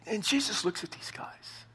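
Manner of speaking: hushed storytelling, slow; slow whisper, drawing them in. A narrator's reading. Dramatic hush in the story.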